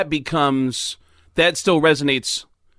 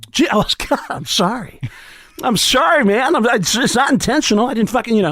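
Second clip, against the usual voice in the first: Sam impression; 9 semitones higher than usual. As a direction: apologise in a high, weird cadence. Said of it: "cadence of that weird, uh, accent he has".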